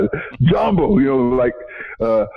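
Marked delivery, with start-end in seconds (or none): 0.4-1.0 cheerful greeting. Retold or imitated. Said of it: "they greet each other".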